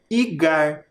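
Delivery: igar said alone, stressed i then gar; rhyme ending. Shown as a demonstration. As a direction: isolate igar for the class. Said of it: "a vogal mais forte é o I".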